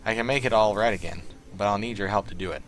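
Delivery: playing the nervous hacker Blitz in a clumsy Southern accent; horrible southern accent. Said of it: "I have a horrible southern accent".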